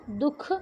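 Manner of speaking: "दुख" with a small h breath before the kh; visarga as half-h. Shown as a demonstration. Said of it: "आधे ह के समान होता है".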